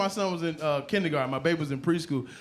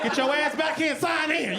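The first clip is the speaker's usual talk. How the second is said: put-on higher, sharp old lady scolding; old black lady; 8 semitones higher than usual. School front-desk lady scolding the dad, sharp voice. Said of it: "That little old black lady".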